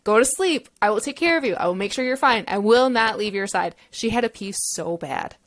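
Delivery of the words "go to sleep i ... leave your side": mom promising to stay by her side; reassuring mom. Retold or imitated. Mom voiced reassuring daughter.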